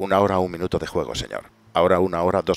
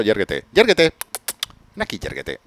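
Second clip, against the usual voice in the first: calling a dog; 2 semitones higher than usual. Pretend. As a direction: command an imaginary dog. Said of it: "llamarle a un perro".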